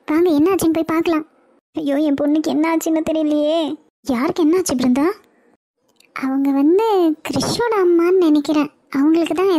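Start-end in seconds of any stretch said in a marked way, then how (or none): 1.8-3.6 mild wailing lament. Acted. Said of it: "இப்படியே அழுதுட்டு இருந்தா எப்படி?".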